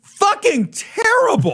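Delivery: high, slow groan of disgust. Real, not acted. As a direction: drag it out like it tastes awful. Tasting bad bourbon, disgusted.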